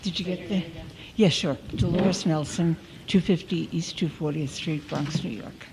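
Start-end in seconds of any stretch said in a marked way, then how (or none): 1.8-5.7 name and address, projected more clearly; speaking up. Real, not acted. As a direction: speak up for the record. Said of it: "Now I'll be screaming".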